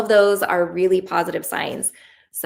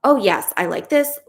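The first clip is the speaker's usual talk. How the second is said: higher, louder, delighted; brain's delighted voice; 4 semitones higher, 5 dB louder than usual. Acted. Coach voicing the brain approving the shift, delighted. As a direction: play the pleased brain saying yes. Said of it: "that it said".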